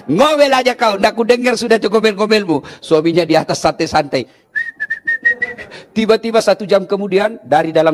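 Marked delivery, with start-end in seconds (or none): 0.0-2.6 a hint of a gloating husband. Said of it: "Dia bilang suaminya".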